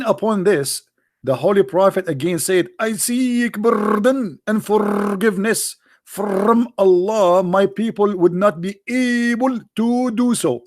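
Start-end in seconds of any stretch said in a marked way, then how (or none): 2.8-10.6 very slow drawn-out mock plea, higher; mocking a plea for pardon; mock pleading. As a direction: stretch the plea out in mockery.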